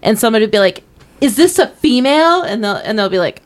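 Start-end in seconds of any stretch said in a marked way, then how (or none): 1.2-2.4 higher-pitched earnest troupe delivery; self-righteous acting student. Retelling a sketch about self-righteous teen actors, hammy stage question. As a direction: pose it like a high-school actor shocking the audience. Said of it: "self-righteous high schoolers who are in this acting troupe".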